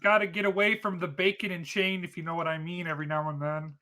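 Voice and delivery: Kermit the Frog voice. Acted. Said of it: "that is an actual joke from the Muppets".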